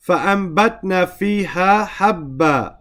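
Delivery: quick recited verse in Arabic; Quran recitation. Shown as a demonstration. Teacher reciting the verse to his class, brisk and chanted.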